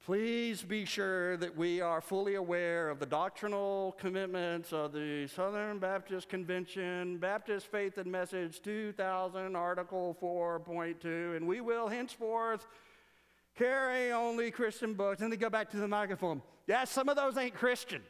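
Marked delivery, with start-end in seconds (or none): 0.0-15.2 slow, formal recitation of doctrine; lightly voiced, deliberate bureaucratic answer; mock official reply. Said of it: "the president always stands up and he's like". 16.7-18.0 a hint of a rural Southern delegate; lightly put-on folksy grumble; country drawl. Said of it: "There's usually a guy who talks like that".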